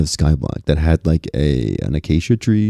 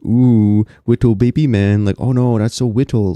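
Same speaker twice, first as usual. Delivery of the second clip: lightly higher mock baby talk; 4 semitones higher than usual. Mocking friends with a playful baby lisp. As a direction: coo the words like a toddler. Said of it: "I say something like".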